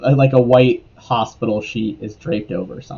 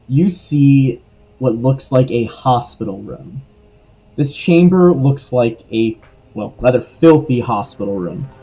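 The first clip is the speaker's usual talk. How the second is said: measured tabletop narration with deliberate pauses; read-aloud description, evenly paced; game master scene-setting. A narrator's reading. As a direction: lay out the scene piece by piece.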